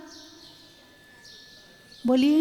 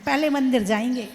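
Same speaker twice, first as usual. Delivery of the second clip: quick devout reply; 3 semitones lower, faster than usual. Retold or imitated. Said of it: "तो क्या कहोगे?".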